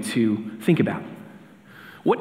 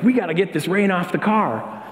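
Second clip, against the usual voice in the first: put-on kid urgency; 7 semitones higher than usual. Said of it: "we're like".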